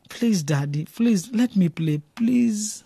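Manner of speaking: begging. Acted. Son begging his father.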